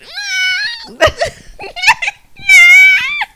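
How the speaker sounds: high loud squealing laugh; long high-pitched squeal; laughing squeal at the thought of the kid; mock shriek. Reacts to imagined snot-nosed kid.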